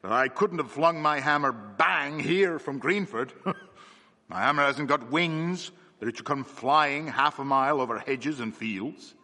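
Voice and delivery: loud, hearty blacksmith; strong man talking loudly to the inspector. Acted. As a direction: boom it out so everyone hears. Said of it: "in a loud voice".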